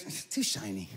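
lightly voiced Terry fussing about his watch; mild Terry voice. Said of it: "He goes".

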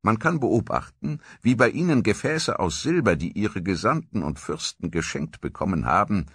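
gemessen vorgelesen, wie ein antiker Chronist; Tacitus-Zitat. Acted. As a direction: lies es wie ein römischer Geschichtsschreiber. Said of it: "wie Tacitus das einst beschrieben hatte". (ein Hauch von altem Chronisten, ruhig vorgetragen)

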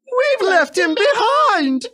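very high, slow wail; sobbing coaches. Acted. Coaches realise the guard is left behind, very high slow wail. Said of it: "sobbed Annie and Clarabel".

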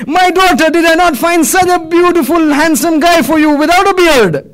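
acted parental outrage, high-pitched; reproachful appeal. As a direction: list your sacrifices as accusations. Dying man reproaches son and daughter.

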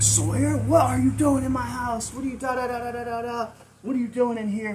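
high, loud retold outburst trailing into da-da-da; flipping out. Homeowner catching the burglar in her house, imitated high flipping out. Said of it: "Flipping out".

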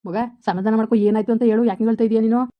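loud pleading with a catch of tears; choked-up coaxing, pushing through; tearful pleading. Acted. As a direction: beg her to calm down while near tears yourself. Pleading with a crying girl.

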